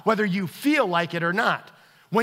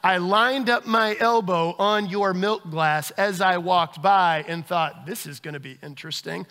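scheming inner voice; 2 semitones lower than usual. Retold or imitated. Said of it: "my heart disposition wasn't like".

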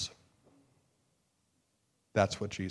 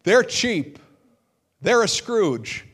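mock accusation; 10 semitones higher, 8 dB louder, slower than usual. Mocking self-justifying accuser.

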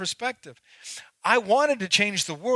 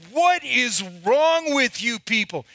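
slow, higher-pitched exasperated rant; retold exasperated outburst; 5 semitones higher, slower than usual. Janitor fed up with scouts' mess, retold exasperated outburst. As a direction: drag out each word in mock outrage. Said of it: "like to have lost my mind".

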